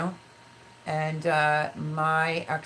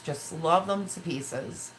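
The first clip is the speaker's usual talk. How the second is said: slowed-down, fond repeat; slow, tender; slower than usual. Real, not acted. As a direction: linger on it with love for the sons.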